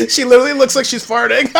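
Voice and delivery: laughing. Real, not acted. Cracking up at the contestant.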